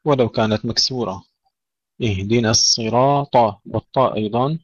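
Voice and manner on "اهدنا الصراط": thick ص in الصراط despite its i vowel; heavy sad. Shown as a demonstration. Teacher modelling recitation, heavy sad in الصراط. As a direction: keep the sad of الصراط full and emphatic. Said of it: "ننتبه إلى تفخيم الصاد".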